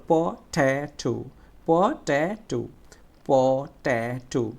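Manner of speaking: পট্যাটো syllable by syllable, long "tae"; slow down and lean on the middle of পট্যাটো; stressed middle syllable. Shown as a demonstration. Teacher drilling students, long stressed middle syllable in পট্যাটো. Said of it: "একটু জোরে উচ্চারণ করতে হবে".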